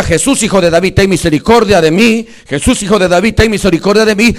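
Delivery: loud, driving cry for mercy; preacher's shouted imitation; reenacted plea. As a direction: repeat the beggar's plea at full voice. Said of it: "Cuando él le decía".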